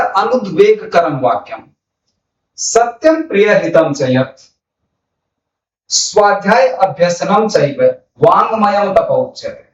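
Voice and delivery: measured chant of a Sanskrit shloka; श्लोक का सस्वर पाठ; verse recitation. Acted.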